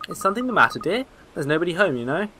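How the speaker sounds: lightly voiced gossiping old woman; chatty old neighbour, a touch shrill; old lady voice.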